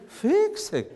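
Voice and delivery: smooth Southern "fixing"; stretched Southern vowel on fixing; Southern accent. Shown as a demonstration. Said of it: "more smooth".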